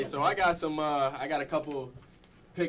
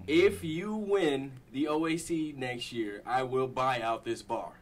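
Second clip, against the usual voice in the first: slow, measured recital of a promise; deliberate quoting; 2 semitones lower, slower than usual. Retold or imitated. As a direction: quote it back slowly, phrase by phrase. Quoting a bet back to him.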